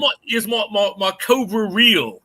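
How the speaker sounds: lightly hammed-up English accent; mock English accent. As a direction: keep up the pretend English accent. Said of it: "I do a great English accent".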